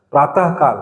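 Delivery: प्रातः with a clear h after ta; audible visarga. Shown as a demonstration. Teacher has students try saying it themselves, प्रातः with audible h. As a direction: say प्रातः as praa-tah, sounding the final h. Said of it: "आप बोलो, खुद से बोलो".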